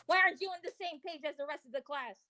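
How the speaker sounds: half-serious teacher reprimand, speeding up; mock teacher. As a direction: pretend to tell off a pupil. Playing scolding teacher in reading hour.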